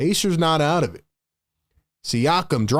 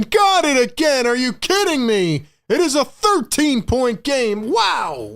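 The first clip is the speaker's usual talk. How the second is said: excited; 8 semitones higher than usual. Real, not acted. Streamer reacting live to Nesmith's three, excited disbelief. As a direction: erupt at the shot in disbelief.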